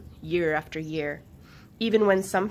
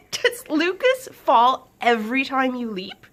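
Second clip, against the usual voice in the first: higher, louder teasing ask; teasing question; 6 semitones higher, 9 dB louder than usual. A narrator's reading. Blades teasing Swift about Lucas falling. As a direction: tease him with a grin. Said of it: "Blades asked".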